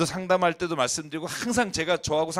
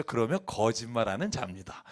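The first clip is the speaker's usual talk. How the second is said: lowered, gently courteous wording; very polite; 5 semitones lower, 4 dB quieter than usual. Retold or imitated. Preacher imitates modern translators' politeness, very courteous and lower. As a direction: say it politely, pitched down. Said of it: "아주 공손하게 하셨죠".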